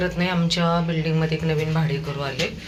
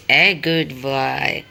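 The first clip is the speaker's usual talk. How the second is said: praising dog; 4 dB louder, much slower than usual. Real, not acted.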